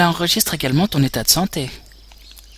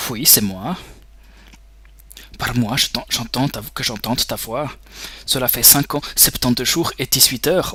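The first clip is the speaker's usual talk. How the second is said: put-on German accent. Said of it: "un accent allemand pour The Boss".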